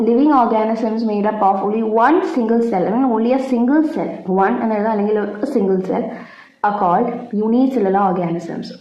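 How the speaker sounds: slow, careful dictation pace. Acted. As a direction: spell it out for notes, slowly. Dictating definition. (പതുക്കെ പറഞ്ഞുകൊടുക്കുന്ന രീതി)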